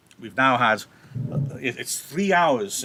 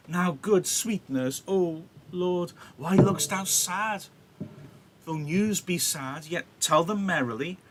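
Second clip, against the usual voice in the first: higher, slightly anxious pleading; coaxing Juliet; 5 semitones higher than usual. Acted. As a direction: coax the nurse for her news. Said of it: "Why you look so sad?".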